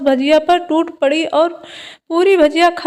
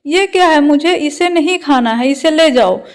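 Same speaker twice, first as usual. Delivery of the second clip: louder, sharper scolding of the same refusal; angrier refusal; 4 dB louder than usual. Acted. Mother-in-law refusing the khichdi again, louder and angrier. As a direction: snap it out like a stubborn elder. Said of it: "तो सास गुस्से से".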